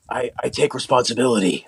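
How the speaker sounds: low, breathy, earnest. Retold or imitated. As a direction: breathe it out like a confession. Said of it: "that kind of voice".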